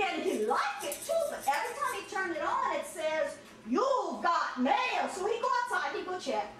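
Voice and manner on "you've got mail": slow announcer voice; computer voice. Retold or imitated. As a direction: draw it out like the computer.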